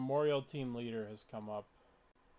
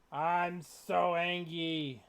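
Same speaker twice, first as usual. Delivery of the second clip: mock anger; 2 semitones higher, much slower than usual.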